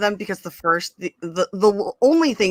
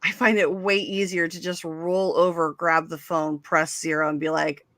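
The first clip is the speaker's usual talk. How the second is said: ordinary talk, nothing marked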